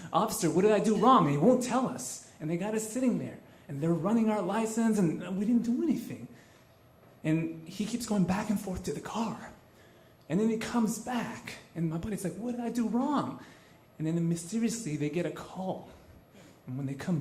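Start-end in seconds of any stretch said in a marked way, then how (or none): 0.1-1.3 retold buddy's protest, higher and louder; persistent protest. Buddy keeps pressing the officer for an answer, persistent. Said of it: "my buddy keeps persisting". 12.3-13.4 retold buddy's insistent question, pitched up; persistent protest. Buddy asks the returning officer once more, persistent. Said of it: "my buddy keeps persisting".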